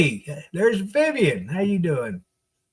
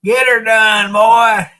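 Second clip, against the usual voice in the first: shout; 7 semitones higher, 8 dB louder, slower than usual. Real, not acted. Cheering on a guest.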